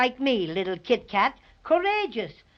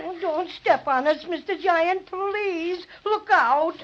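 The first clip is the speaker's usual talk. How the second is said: pleading; 3 semitones higher, slower than usual. Acted. Begging the giant.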